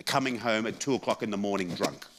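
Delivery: ordinary talk, nothing marked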